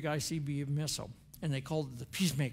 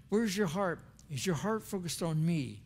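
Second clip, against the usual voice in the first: God's gentle question; 2 semitones higher than usual. Retold or imitated. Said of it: "what he's saying".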